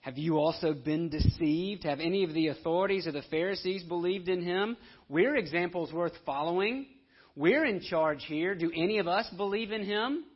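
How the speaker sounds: loud, indignant scolding; infuriated Pharisees. Retold or imitated. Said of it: "infuriates them".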